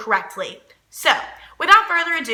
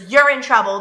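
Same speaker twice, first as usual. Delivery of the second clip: firm telling-off; 4 dB louder than usual. Retold or imitated. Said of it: "You should be saying".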